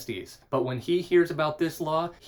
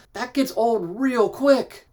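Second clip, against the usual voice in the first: weary aside; 9 semitones higher, 6 dB louder, slower than usual. Real, not acted. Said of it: "I don't know if you've ever had toddlers".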